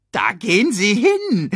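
jaulend, hoch wie eine Hyäne; hyäne jault. A narrator's reading. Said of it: "jaulte Banzai". (jaulende Hyäne)

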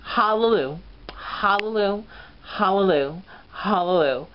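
catchphrase. Retold or imitated. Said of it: "basically her catchphrase".

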